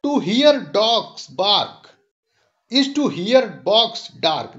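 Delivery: slow recitation of "It tickles my bones"; measured, unhurried poem reading; poem recital. Shown as a demonstration. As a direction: savour each line of the poem for the class. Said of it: "mention किया है कि".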